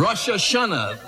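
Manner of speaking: slow clear repeat. Real, not acted. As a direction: say Rosh Hashanah slowly so she gets it. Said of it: "Russia who?".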